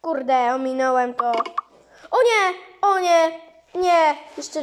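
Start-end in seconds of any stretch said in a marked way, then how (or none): 2.1-4.1 higher, louder cry of dismay. Real, not acted. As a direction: yelp at the game going wrong. Losing in the game.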